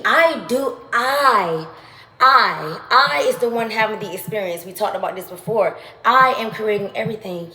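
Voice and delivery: fervent affirmation. Real, not acted. Building affirmations to a peak.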